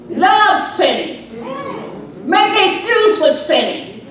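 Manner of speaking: full-voiced scolding preacher; doomsday street preacher. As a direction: thunder it at the sinners.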